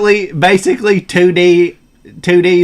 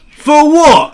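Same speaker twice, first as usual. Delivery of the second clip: British accent; 8 semitones higher, 5 dB louder than usual. Shown as a demonstration. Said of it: "Australian accent?".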